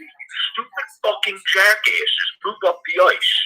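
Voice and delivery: high-pitched, exasperated yell at the players; retold TV yell. Fan cursing the team through the TV, exasperated yell. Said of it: "I literally yelled at my T V".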